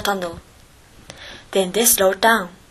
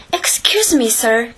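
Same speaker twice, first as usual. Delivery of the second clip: cried out; 2 semitones higher than usual. Acted. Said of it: "cried Toad".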